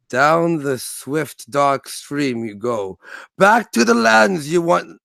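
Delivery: reading aloud, slow. Retold or imitated. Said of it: "he's like".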